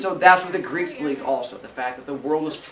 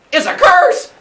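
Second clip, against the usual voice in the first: high, loud triumphant cry; spring it on him with a shout; dramatic reveal; 11 dB louder, slower than usual. Acted. Uranus throws the curse at Cronus, loud.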